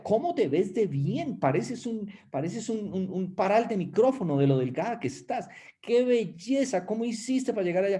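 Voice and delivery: halago exagerado en tono más alto; imitando halagos. Retold or imitated. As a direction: adular como una amiga entusiasta, agudo. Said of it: "la gente me decía". (la gente elogia su figura, voz aguda y aduladora)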